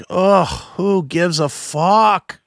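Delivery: slow, drawn-out disgusted groan; weary, stretched-out dismissal; exasperated. Retold or imitated. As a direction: drag each word out, utterly fed up. Fed up with dull dad jokes.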